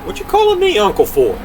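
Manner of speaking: high-pitched, puzzled protest; high indignant query; indignant giant. Acted. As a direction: shoot the question up high as the giant. Giant indignantly questions Jack.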